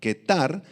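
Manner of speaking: ketar aislada, k dura y acento en la á; palabra aramea. Shown as a demonstration. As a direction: repite ketar marcando la á. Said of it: "con Q y acento en la A". (ketar, "ketár" claro)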